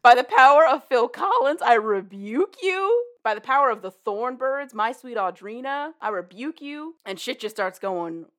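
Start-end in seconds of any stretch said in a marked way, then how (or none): 0.0-6.9 loud, higher hammed-up rebuke; mock exorcism. Abby rebuking the demon, hammed-up prayer.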